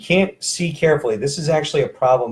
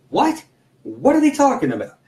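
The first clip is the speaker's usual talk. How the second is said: mock confusion; 10 semitones higher than usual.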